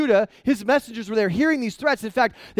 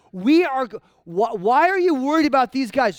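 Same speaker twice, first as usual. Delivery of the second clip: louder, scoffing taunt from the enemy; mock brutal taunt; 2 semitones higher, 3 dB louder than usual. Assyrian messengers taunting Judah's envoys, scoffing. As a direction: sneer at them like a cruel envoy.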